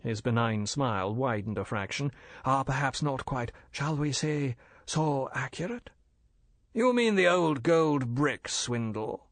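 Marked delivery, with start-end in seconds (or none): 2.4-5.9 polite and bland, a dealer explaining; bland Chinese merchant. Acted. Older Fu brother lecturing the major, smooth and polite. 6.7-9.3 slow, louder, worried question; twinge of anxiety. Acted. Major anxiously questioning the gold dealers. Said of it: "with a twinge of anxiety".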